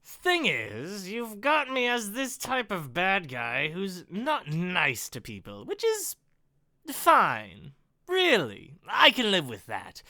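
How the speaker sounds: lightly voiced smug villain; reasoned taunt with swooping emphasis; villain Ken. Villain explains himself to the writer, mildly smug. Reads villain Ken's dialogue.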